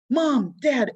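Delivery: high, loud call for his parents; boy yelling for mom and dad. A narrator's reading. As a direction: shout it up the stairs. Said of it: "A J yelled".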